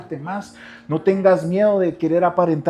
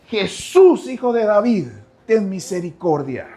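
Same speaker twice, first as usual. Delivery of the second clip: high, loud plea; crying out for mercy; 6 semitones higher, 3 dB louder than usual. Retold or imitated. Blind men begging Jesus for mercy, loud high cry. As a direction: beg for mercy at full voice.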